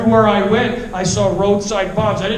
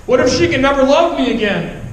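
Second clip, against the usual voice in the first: anguished plea; 4 semitones higher than usual. Retold or imitated. Pleading with God.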